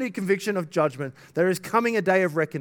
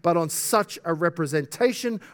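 raised, emphatic preaching voice; forceful quotation reading; 3 semitones higher, 4 dB louder than usual. Real, not acted. Preacher quoting an article on love of God, emphatic. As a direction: read it out with pulpit force.

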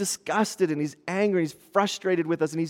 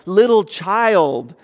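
slow, tender words to a healed woman; affectionate; 4 dB louder, slower than usual. Retold or imitated. Jesus to the healed woman, tender and slow. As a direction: speak it gently, like to a little child. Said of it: "he uses a term of affection for her".

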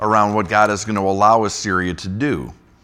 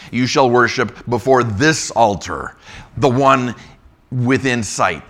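loud, raised public reading of scripture; 3 semitones higher, 5 dB louder than usual. Acted. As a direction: proclaim the text to the congregation. Reads Rabshakeh's speech aloud.

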